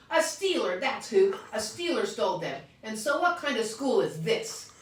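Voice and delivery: high, loud indignant ranting; child outraged about crooks at school; upset complaint. Acted. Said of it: "upset child complaining".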